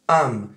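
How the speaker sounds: "am" for I'm, the glide lost; a single short syllable "am"; reduced I'm. Shown as a demonstration. Teacher showing what I'm often becomes, reduced to am. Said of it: "il devient".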